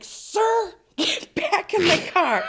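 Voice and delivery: high, loud mock cop order; officer yelling at a drunk man; police command. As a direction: bark it like a cop. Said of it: "they're like".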